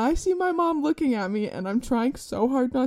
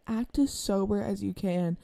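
whispered; 3 semitones lower, 6 dB quieter than usual. Retold or imitated. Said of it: "like, whispered".

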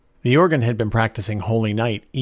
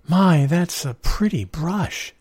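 higher, slow, delighted exclamation; exclaiming in admiration; 8 semitones higher, much slower than usual. A narrator's reading. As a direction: draw out the admiration in a raised voice. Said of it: "she exclaimed".

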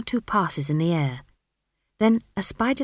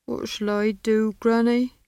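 slow, higher-pitched plea from the smith; helpless appeal, pitched up; pleading; 5 semitones higher than usual. A narrator's reading. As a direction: plead with her, drawing it out. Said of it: "unable to keep the pleading out of his voice".

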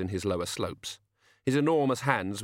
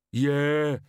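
slow-witted giant; 6 semitones higher, 5 dB louder than usual. A narrator's reading. Slow giant Banjo answers.

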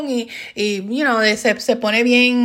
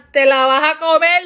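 stern mother; 4 semitones higher, 3 dB louder than usual. Acted. Mother's real answer, acted.

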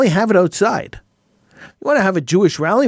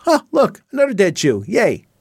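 sarcastic fake cheer, pitched up at the start; mock indifference; 2 semitones higher than usual. Host mimics the world reacting to another death, mock indifference. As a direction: toss off a hollow little cheer.

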